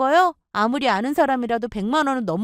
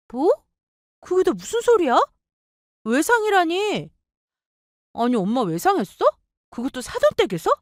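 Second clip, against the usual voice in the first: put-on higher, startled young woman; shocked sister-in-law; 5 semitones higher than usual. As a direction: react in disbelief to the news.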